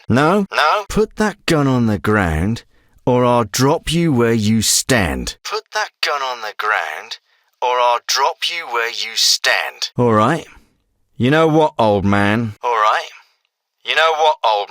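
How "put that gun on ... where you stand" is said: slow, deliberate threat; measured warning to an armed opponent; threatening. Acted. Ordering someone to drop a gun or be shot, threatening.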